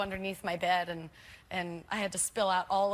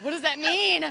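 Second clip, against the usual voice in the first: retold bafflement; 7 semitones higher, 6 dB louder than usual. Retold baffled reaction to wording.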